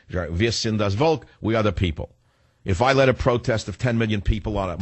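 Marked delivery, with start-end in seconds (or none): 0.1-1.3 quoted German slogan. Shown as a demonstration. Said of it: "Their saying is".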